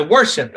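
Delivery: Worship said with the first syllable stressed, falling at the end; stress on WOR. Shown as a demonstration. Teacher tests which syllable of worship is accented. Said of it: "I say".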